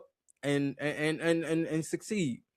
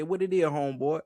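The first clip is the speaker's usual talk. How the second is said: lightly mimicked Atlanta greeting, endings dropped; imitated Atlanta accent; 2 semitones higher than usual. Guest imitating Atlanta folks, Atlanta accent. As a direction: Atlanta talk, swallowing last syllables. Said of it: "they don't say the last syllable at all".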